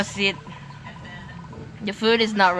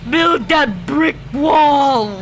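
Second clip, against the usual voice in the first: slow shouted demand; 3 semitones higher, 3 dB louder, much slower than usual. Real, not acted.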